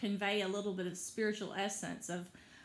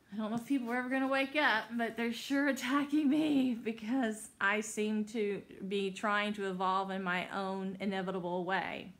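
agitated; 4 dB louder than usual. Real, not acted. Agitated rant about being attacked.

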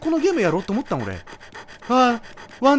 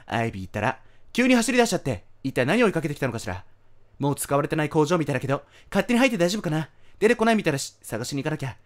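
lightly acted, quiet read-aloud; reading game dialogue; 8 semitones lower, 3 dB quieter than usual. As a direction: read the character's lines out quietly. Reads out game character's lines.

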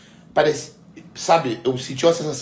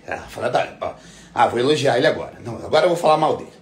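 1 mock fickle commenter; faster than usual. Mocking fickle online commenters.

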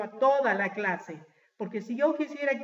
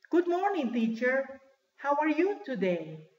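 high-pitched, sing-out class reply; students greeting teacher; 3 semitones higher than usual. Acted. Pupils to their teacher, high-pitched greeting. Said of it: "los estudiantes, ¿cómo dirían?".

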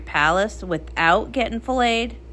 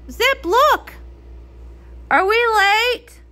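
excited surprise; 10 semitones higher, slower than usual. Acted. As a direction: burst out with joy. Excited surprise at friends' arrival.

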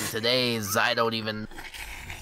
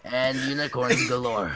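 mock match announcer; odd announcer delivery. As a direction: announce each name with deliberate pomp. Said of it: "Why did you say it like that?".

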